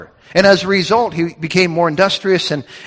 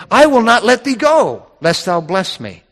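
serious, determined; 3 semitones higher than usual. Acted. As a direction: declare it firmly, pitched up and emphatic. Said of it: "Jacob here is serious about it".

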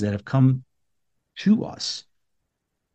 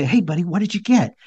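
lightly higher, playful dad voice; dad to little boy; 6 semitones higher than usual. Retold or imitated. Dad asking his little son about a gift, playful. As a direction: talk brightly to a small child.

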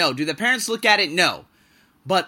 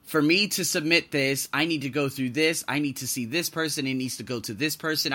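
exasperated groan; 5 semitones lower, 5 dB quieter than usual. Retold or imitated. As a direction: drag it out like you're fed up with paperwork. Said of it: "where you're like".

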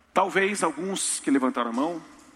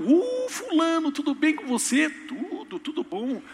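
cheery gatekeeper greeting; 13 semitones higher, slower than usual. Pretend. Peter greets at heaven's gate.

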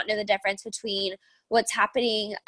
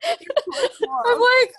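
blowing nose; 13 semitones higher, 5 dB louder than usual. Real, not acted.

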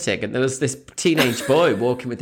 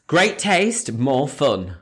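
hint of a sales pitch, falling at the end; slogan delivery; much slower than usual. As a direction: present it as an advertising line. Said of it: "the slogan was".

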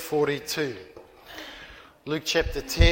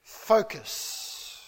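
hushed word; 2 semitones higher, 5 dB quieter than usual. Retold or imitated. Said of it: "She said one word".

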